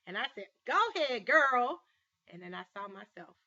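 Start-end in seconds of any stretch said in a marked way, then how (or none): 0.6-1.8 loud, high encouraging cry; cheering her on. Retold or imitated. Speaker urging the girl to trust him, loud cheering.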